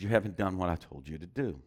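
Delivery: low, soft, calm divine voice; Holy Spirit's voice. Retold or imitated. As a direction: speak as a quiet voice from God. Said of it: "And the Holy Spirit speaks to him".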